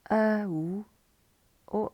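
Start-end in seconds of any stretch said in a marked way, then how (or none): 0.1-0.8 "O" drawn out as in moan; combo vowel. Shown as a demonstration. Teacher running through combo vowels, "O" as in moan. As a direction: glide slowly through "O". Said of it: "O as in moan".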